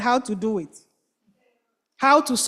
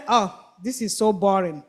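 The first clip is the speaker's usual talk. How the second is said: bored complaint. Acted. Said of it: "All of a sudden they say".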